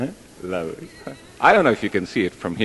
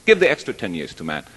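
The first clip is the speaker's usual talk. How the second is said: quick, lightly acted refusal; brisk objection, lightly played; mock objection; faster than usual. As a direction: imitate a hurried protest. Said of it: "Parrot objected".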